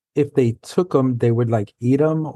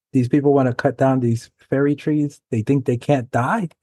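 put-on light, shaky-at-best Irish accent; amateur imitation of an Irish speaker; attempted Irish accent. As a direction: have a go at an Irish accent, imperfectly. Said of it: "I can't do that Irish accent".

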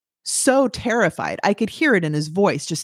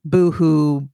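a lower, imitated blubbering "boo-hoo"; mock boo-hoo sob; 3 semitones lower than usual. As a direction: mimic his big crying, half mocking. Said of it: "he was crying hysterically".

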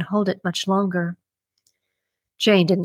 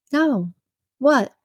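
teasing; 6 semitones higher than usual. A narrator's reading. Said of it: "Jane teased him more".

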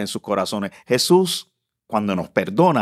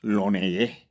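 a hushed, frightened mutter, softer and lower; scared Peter; 4 semitones lower, 5 dB quieter, slower than usual. Retold or imitated. Preacher imagines Peter scared after denying Jesus, frightened hush. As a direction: voice Peter's fright at having denied him. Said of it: "asustado porque dijo".

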